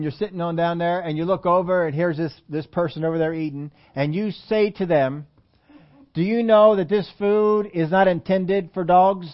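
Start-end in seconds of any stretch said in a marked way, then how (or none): 6.1-9.3 slow, deliberate question to a stranger; pointed mock question. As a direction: space it out like a tactless announcement. Acted tactless remark to a diner.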